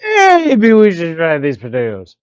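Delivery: imitating an odd synthetic voice; weird robotic inflection. Shown as a demonstration. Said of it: "the way they say it is like".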